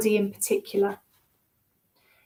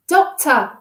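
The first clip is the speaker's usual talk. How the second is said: barked; 3 semitones higher, 6 dB louder than usual. A narrator's reading. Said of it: "she barked again".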